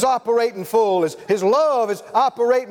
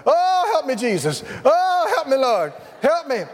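higher, begging cries for help; desperate pleading; 3 semitones higher than usual. Retold or imitated. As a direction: plead like a man stalling on a hill. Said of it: "struggling man begging uphill".

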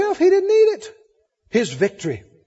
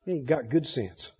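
low, very soft aside; muttered disapproval; 10 semitones lower, 11 dB quieter than usual. Acted. Onlookers gossiping about a believer, low muttered disapproval. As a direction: mutter it under your breath.

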